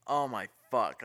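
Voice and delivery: startled curse. Retold or imitated. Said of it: "I'd be like".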